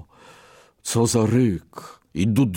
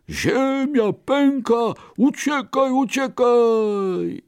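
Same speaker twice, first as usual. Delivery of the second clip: high, slow, frantic animal shout; panicked cry; 14 semitones higher, slower than usual. Acted. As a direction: scream it as a terrified rabbit fleeing. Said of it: "wykrzyknęły". (przerażony, wysoki okrzyk)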